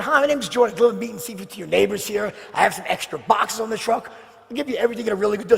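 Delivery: loud, bright, rushed doorstep pitch; eager sales pitch. Retold or imitated. New salesman pitching a wealthy woman at her door, rushed and eager. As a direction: sell it fast and eager.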